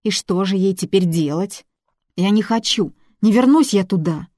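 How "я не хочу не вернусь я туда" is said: higher, louder cry of refusal; frightened girl refusing to go home, louder; desperate refusal. Acted. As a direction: plead not to be sent back.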